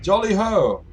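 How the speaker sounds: high, loud toff's greeting; jolly hail. Acted. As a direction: call out merrily from above. Airship man hails, waving hat.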